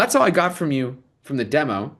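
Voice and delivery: ordinary delivery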